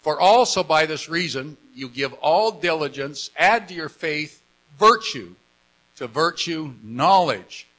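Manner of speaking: measured scripture reading, item by item; reading aloud. Real, not acted. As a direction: read the verse out to a congregation. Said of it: "Let's read it".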